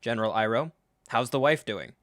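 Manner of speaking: idle small talk, played for irony; mock casual. Mocking the greeting to General Iroh, overly casual. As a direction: make pleasant chit-chat, mockingly. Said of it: "the casual".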